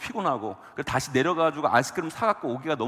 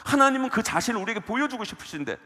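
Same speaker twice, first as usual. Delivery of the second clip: preaching; 6 semitones higher than usual. Acted. Raised preaching voice.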